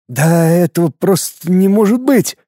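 high, scared disbelief; frightened wheeze. A narrator's reading. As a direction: force it out past a lump in the throat. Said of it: "просипел перепуганный техник".

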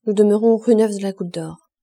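fierce, loud refusal; wife forbidding the hospital, loud and fierce; violently. A narrator's reading. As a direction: refuse them outright, no discussion. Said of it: "en disant violemment".

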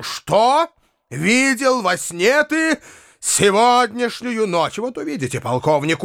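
a hint of bullying insistence; mild imperious demand; Foma's stern demand. A narrator's reading. Foma interrogates the boy.

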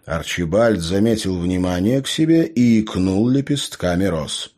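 ordinary delivery, nothing marked

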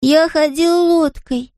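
put-on high, slow little boy in a thick Scottish accent; Scottish-accented small boy, earnest; Scottish child. A narrator's reading. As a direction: say it like a Highland toddler, proud. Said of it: "жёстким шотландским акцентом".

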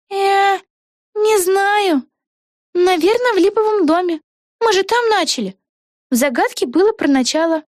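put-on excited young witch thinking aloud; Vega's voice. A narrator's reading. Вега. (высокий голос юной ведьмы Веги)

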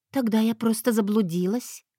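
breathy cutesy giggly. Acted. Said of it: "самым милым голосом из своего арсенала".

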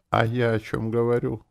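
high, fawning agreement; ingratiating. A narrator's reading. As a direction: suck up to the boss. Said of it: "заискивающе улыбнулся клерк".

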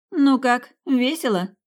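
high, loud teasing call; shouted taunt. A narrator's reading. Tina shouting to her friends in the ravine, teasing and loud. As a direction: yell it out over the game, high and loud. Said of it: "крикнула Тина".

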